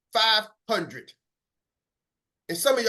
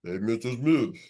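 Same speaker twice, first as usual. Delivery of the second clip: much lower, deep greeting; low greeting variant; 8 semitones lower than usual. Shown as a demonstration. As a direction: drop the voice down. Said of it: "start changing up and everything".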